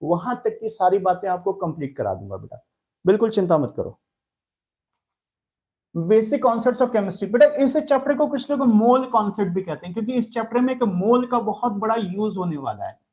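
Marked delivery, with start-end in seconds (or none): 5.9-7.3 very slow, every word drawn out for note-taking; slow dictation. Shown as a demonstration. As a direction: dictate the chapter title at writing speed. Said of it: "chapter की heading देंगे सबके सब".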